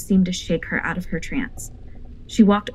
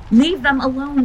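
much higher, louder yell at the door; 8 semitones higher, 7 dB louder than usual. A narrator's reading. Lupita yells through the door at La Llorona, furious. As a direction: drive the spirit off with a yell. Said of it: "she yelled through the door".

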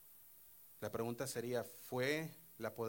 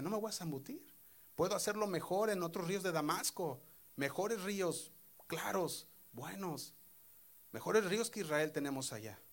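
indignant general; 5 semitones higher than usual. Retold or imitated. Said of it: "iba enojado y decía".

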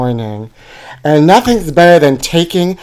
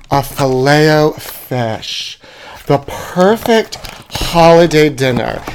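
reverent presentation; slower than usual. Acted. Presenting item on show.

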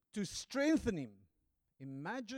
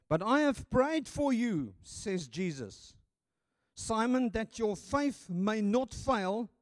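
loud, high, slow preacher's plea as Jesus; fervent plea; 6 semitones higher, 6 dB louder, slower than usual. Acted. Preacher voicing Jesus to Simon, loud slow plea. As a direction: lift it up and plead it slowly.

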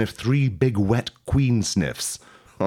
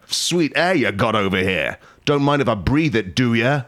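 queen shouting; 2 semitones higher than usual. Acted. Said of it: "you shout at a nearby docker".

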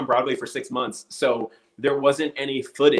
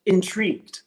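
mock director's note; 10 semitones higher than usual. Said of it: "He'd be like".

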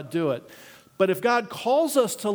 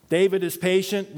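mock self-mocking reread; 3 semitones higher than usual. Shown as a demonstration. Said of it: "Nope, I failed on the first one".

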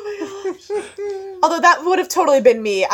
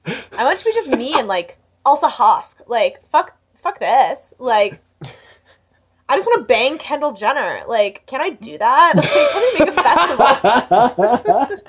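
put-on Valley Girl accent; 2 semitones lower than usual. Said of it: "I gave him a little bit of a Valley Girl accent".

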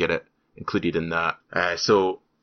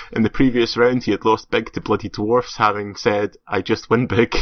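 slightly louder, emphatic complaint reading; indignant email read-out; 2 semitones higher, 6 dB louder than usual. Acted. Host reads fan's complaint to co-host, mock indignant.

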